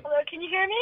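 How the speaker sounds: distant caller on the phone; far-off voice yelling into the room; from another room. Real, not acted. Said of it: "It sounds like you left it in one room and you're yelling at us from the other room".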